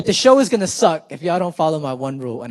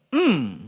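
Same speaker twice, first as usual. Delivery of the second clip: approving hum. Shown as a demonstration. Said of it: "you could do little things like".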